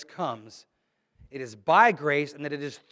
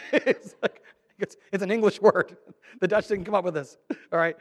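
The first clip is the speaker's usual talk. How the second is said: laughing through the words; 6 semitones higher, 6 dB louder than usual. Real, not acted. Preacher amused at the tulip story, laughing. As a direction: chuckle as you explain. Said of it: "laughing while talking".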